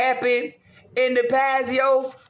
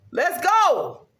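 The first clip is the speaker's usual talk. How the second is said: hype shout; 5 semitones higher than usual. Real, not acted. To herself before the sacrifices, a pumped-up cry. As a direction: fire yourself up.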